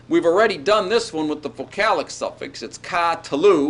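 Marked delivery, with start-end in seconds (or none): 2.8-3.7 "ka, talu" with a held, accented first "ka"; secondary accent on ka. Shown as a demonstration. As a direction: give "ka" its own beat before "talu". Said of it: "with the secondary accent here at the beginning".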